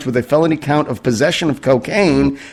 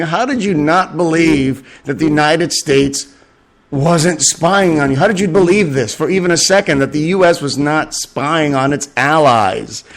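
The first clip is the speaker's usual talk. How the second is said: lightly voiced nation asking how anyone could be so naive; mock incredulous Israel. Israel lecturing its allies, mild mock disbelief. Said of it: "Israel is saying".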